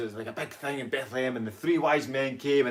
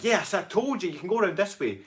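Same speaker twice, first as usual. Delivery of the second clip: raised, higher told-you-so voice; climber's exasperated missus; 8 semitones higher than usual. Retold or imitated. Woman to her climbing partner, exasperated call. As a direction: imitate the partner calling it out. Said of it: "his missus was like".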